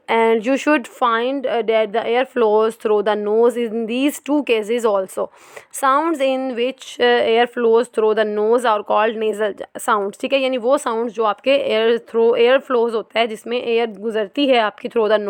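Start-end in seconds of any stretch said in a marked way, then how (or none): 0.1-10.2 very slow, careful reading from the book; textbook reading. Acted. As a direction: read each word out deliberately. Reads textbook aloud.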